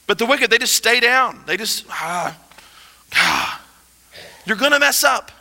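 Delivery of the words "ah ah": breathy groan of giving up; defeated sigh. Acted. Preacher acting out the fallen who stay down, defeated sigh. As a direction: sigh like someone staying down. The wicked just staying down.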